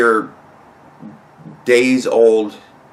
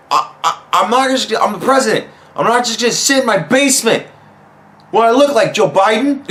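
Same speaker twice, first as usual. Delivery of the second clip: mock Trump voice; 8 semitones higher than usual. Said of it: "Donald Trump is gonna be like".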